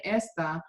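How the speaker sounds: "esta" stressed on the first syllable; wrong stress. Shown as a demonstration. Teacher showing the class the mistaken word, stress on first syllable. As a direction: say esta with the punch on ES. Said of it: "not putting the emphasis on the ending".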